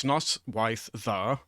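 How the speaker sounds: careful Welsh teacher's "Noswaith dda"; slow demonstration. Shown as a demonstration. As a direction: spell out "Noswaith dda" by sound, slowly. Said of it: "so I can say them again".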